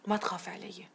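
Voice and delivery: soft hushed comfort; calm her in a whisper; whispered reassurance. Acted. Samra reassuring her worried aunt, soft whisper.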